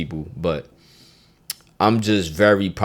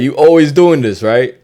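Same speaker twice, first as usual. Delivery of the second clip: accusing, raised nagging voice; mock partner nagging; 5 semitones higher, 9 dB louder than usual. Teacher acting out a partner's complaint.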